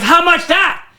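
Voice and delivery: put-on high, shouted Asian-accent haggling; imitation Asian-accented customer, loud and insistent; thick mock Asian accent. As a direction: yell it out in a hammed-up Asian accent. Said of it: "she had a very thick, like, an Asian type thing".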